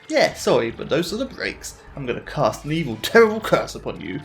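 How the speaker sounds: lightly voiced gloating trickster ghost; mock the player like a smug trickster ghost; gloating villain. Taunting ghost villain role.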